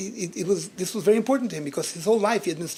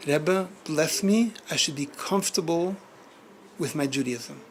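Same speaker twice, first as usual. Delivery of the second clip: gentle; slower than usual. Retold or imitated. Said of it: "in the most gentle way".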